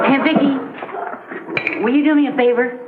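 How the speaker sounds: put-on voice cracking and rising; voice slipping. Real, not acted. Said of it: "Your voice is slipping".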